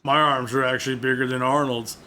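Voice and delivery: a badly faked boastful wrestler; lightly put-on voice, bragging about muscles; hammed-up tough-guy boast; terrible Ventura impression. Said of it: "My, my terrible impression".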